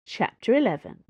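ordinary delivery, nothing marked

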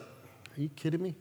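high, laughing incredulous protest; mock indignation. Pastor mocking his own outrage at fasting, high and laughing. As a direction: scoff at the idea through laughter.

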